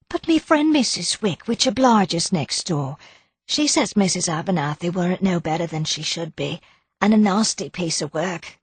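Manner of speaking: high, chatty Cockney char voice; gossipy charwoman. Acted. Mrs Potter gossiping to Daisy, high chatty char voice. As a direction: gossip eagerly like an old daily help.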